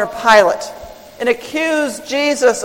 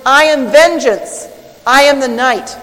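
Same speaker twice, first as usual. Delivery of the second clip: lightly voiced superhero; 3 semitones higher, 5 dB louder than usual. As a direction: proclaim it like a hint of a superhero. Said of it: "with all his might and with the words".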